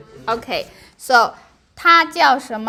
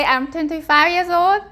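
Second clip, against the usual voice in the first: words through a laugh; 3 semitones higher than usual. Real, not acted. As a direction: say it while still laughing. Laughing after age joke.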